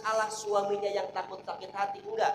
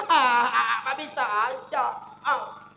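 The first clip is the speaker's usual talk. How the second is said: flattered giggle; 7 dB louder, much slower than usual. Retold or imitated. Wife flattered reply.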